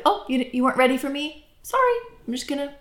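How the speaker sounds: engage lightly, with a touch of humor; playful, respectful humor. Acted. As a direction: play it light and high, no pressure. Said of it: "engaging with a little bit of humor".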